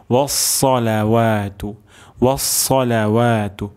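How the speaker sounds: ওয়াসসালাওয়াতু with a heavy emphatic স; emphatic sad sound. Shown as a demonstration. Teacher shows students the sad in ওয়াসসালাওয়াতু, emphatic. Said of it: "সদ উচ্চারণ করতে হবে".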